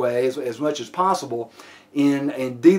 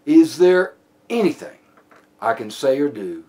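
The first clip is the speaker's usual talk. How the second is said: slow, spaced-out appeal falling lower; measured plea; 4 semitones lower than usual. Shown as a demonstration. Officer gaining suspect's cooperation, measured plea. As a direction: plead calmly, a pause after each phrase. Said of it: "it comes across almost as a plea".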